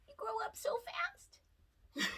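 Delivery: soft sentimental whisper. Real, not acted. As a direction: breathe it tenderly to the pet. Whispers to ferret.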